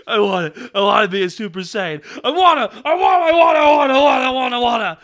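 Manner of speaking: a tantrum building to a yell, then easing off; frantic shouting. Retold or imitated. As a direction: streamer hamming up a screaming anime line. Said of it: "he has several lines Lanny Patora gives".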